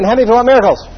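quick, pressing repeat of "miracles". Shown as a demonstration. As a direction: rush the question again to push them. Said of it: "Ask again".

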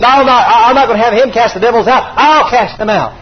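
chuckling defiance; laughing boast. Retold or imitated. Rudy boasting he'll cast the devils out himself, laughing.

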